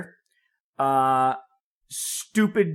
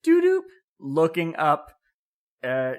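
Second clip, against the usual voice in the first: Siri voice; slower than usual. Retold or imitated. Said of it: "It's like".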